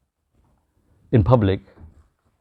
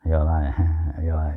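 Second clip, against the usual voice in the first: mocking laugh; 7 semitones lower, 7 dB quieter than usual. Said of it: "people will start saying".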